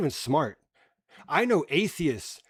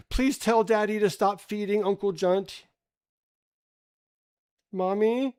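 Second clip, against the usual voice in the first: put-on whiny child; 4 semitones higher than usual. Mocking a kid begging Mommy to stop the movie. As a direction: beg Mommy like a frightened little kid.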